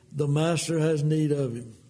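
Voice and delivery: calm and low, unhurried; calmly say. Pretend. Disciple answering the colt's owner, calmly. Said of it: "just calmly say".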